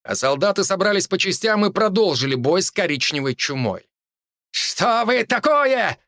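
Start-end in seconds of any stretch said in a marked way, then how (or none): 4.5-6.0 high, slow monster shriek. A narrator's reading. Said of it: "выкрикнул чернолицый монстр".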